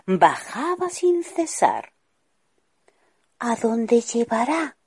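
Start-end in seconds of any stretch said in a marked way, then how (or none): 3.4-4.8 higher, eager wondering question; excited. Acted.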